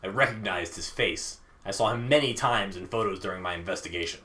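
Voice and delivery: low, measured storyteller; story narration. A narrator's reading. Narrator reveals the man from the investigation, measured story narration.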